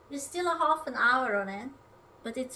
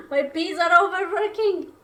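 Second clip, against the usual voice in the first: exasperated; 5 semitones higher, 9 dB louder than usual. Real, not acted. Pot boiling over.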